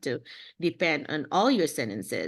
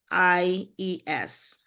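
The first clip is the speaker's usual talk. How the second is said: slow spelling; much slower than usual. Shown as a demonstration. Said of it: "How do you say that again?".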